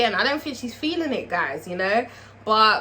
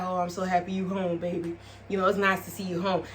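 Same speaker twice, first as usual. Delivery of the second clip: softer, lower sweet-talking husband; canoodling sweet talk; 5 semitones lower, 6 dB quieter than usual. Retold or imitated. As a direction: coo it to her like you're glad she's home. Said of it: "he's just canoodling her like".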